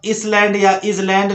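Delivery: इसलैंड starting "is-", once with S, once Z; wrong pronunciation. Shown as a demonstration. Teacher lists misreadings of island, mispronunciation. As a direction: sound the S in इसलैंड, then as a Z. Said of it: "नहीं पढ़ना है".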